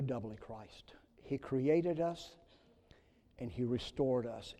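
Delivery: slow, hushed whisper; a reverent near-silent confession. Acted. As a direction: draw them in with a whisper. Hushed sermon climax.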